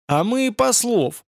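a rough shout to drown out the servant; barked shout. A narrator's reading. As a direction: bark it back over the crowd. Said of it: "гаркнул Радша ещё громче".

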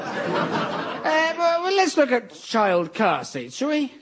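high-pitched, uneasy change of subject; flustered. Acted. Host to child-safety expert after her shocking remarks, flustered.

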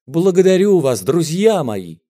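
emotional thanks to the crowd; touched thanks. A narrator's reading. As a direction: swell with gratitude on благодарю вас. Moved singer repeats thanks.

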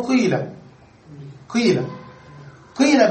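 قيل with lips rounded on the long ee; ishmam. Shown as a demonstration. Teacher showing the third form, قيل with rounded-lip ee. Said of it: "تنطقها ياء ولكن تضم الشفتين معها".

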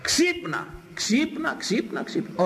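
high, urgent repeated wake-up cry; rousing call. Real, not acted. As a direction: jolt the sleepers awake. Preacher calls listeners to wake up.

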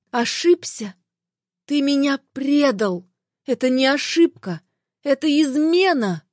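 rising, bitter outrage; wife rejecting her husband's excuse, rising in anger; indignant anger. Acted. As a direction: throw the word back at him in fury. Wife throws back his excuse.

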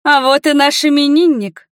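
high, loud gushing welcome; ringing greeting. A narrator's reading. Mother greeting her birthday son loudly, high gushing welcome. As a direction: sweep in with showy delight. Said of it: "послышалось звонкое".

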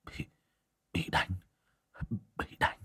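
soft moaning, almost breathless, in pain. A narrator's reading. Hùng moaning in bed after a beating, soft pained groan. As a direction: groan the words out weakly. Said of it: "rên hừ hừ".

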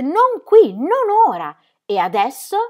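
high, loud clipped commands; angry shout. Acted. Ingram shutting down Ingeborg in anger. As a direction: cut her off furiously.

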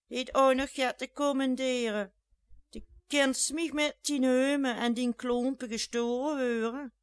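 loud, high abusive tirade; shrill scolding. A narrator's reading. Jeanette scolds the two ladies, loud shrill abuse. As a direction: hurl insults at them, loud and high.

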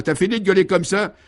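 high-pitched exasperated yelling; beside himself. A narrator's reading. Father interrupting his bawling wife, beside himself. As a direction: explode at the racket. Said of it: "le père hors de lui intervient".

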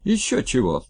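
high, loud shriek of refusal. Acted. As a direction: squeal it out in outrage. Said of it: "взвизгнул Скотников".

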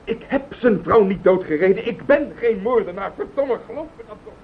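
cracking, desperate cry of innocence; desperate plea. Acted. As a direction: beg them to believe you, voice breaking up. Accused man begs to be believed.

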